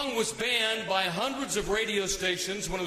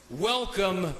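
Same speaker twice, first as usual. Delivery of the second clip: announcer shout; 5 semitones higher than usual. Real, not acted. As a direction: call the star onto the stage. Announcer introducing star on stage.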